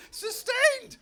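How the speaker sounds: sustained shouted high and loud; stress on sustained. Real, not acted. Comic mocking a salesman's word, sustained shouted. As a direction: land hard on sustained in disbelief. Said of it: "That's the bit I love".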